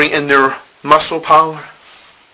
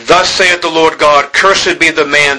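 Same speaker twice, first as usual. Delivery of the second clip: measured, weighty reading of holy text; solemn scripture reading; 3 semitones higher than usual. Acted. Reads scripture aloud.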